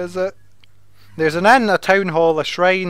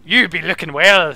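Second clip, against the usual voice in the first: mock pirate. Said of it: "says the pirate".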